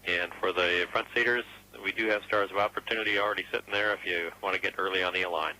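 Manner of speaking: crackly radio comms voice; over a radio link; radio transmission. Real, not acted. Mission control radio call.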